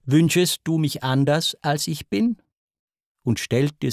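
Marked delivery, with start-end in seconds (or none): 0.0-2.4 a breathed, seductive question; lightly breathed temptation. Acted. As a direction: breathe it into his ear. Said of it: "Sie hauchte".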